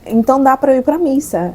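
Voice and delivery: retold happy burst at good news; joyful relief. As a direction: blurt it out with sudden joy. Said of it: "Era a alegria".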